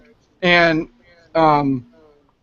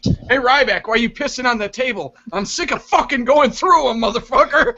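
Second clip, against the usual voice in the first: mock Vince rant; 5 semitones higher, 3 dB louder than usual. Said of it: "Vince is gonna be walking around backstage".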